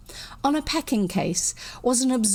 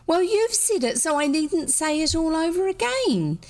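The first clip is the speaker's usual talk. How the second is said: high, snippy retort; the heroine snapping at William, high; pert girl; 8 semitones higher than usual. A narrator's reading. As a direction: toss it back, high and pert.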